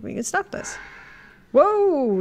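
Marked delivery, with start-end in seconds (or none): 1.5-2.2 high, loud startled whoa; real surprise, higher and louder; surprised whoa. Real, not acted. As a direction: react like something just jumped out. Reacting to game effect.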